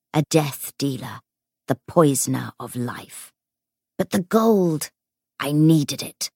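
seething spirit. Acted. Ghost figure speaks.

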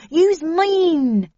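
high, loud urgent commands; desperate shouting. A narrator's reading. Snell sending the narrator away from the virus, desperate high shouts. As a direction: shout each order to get them out.

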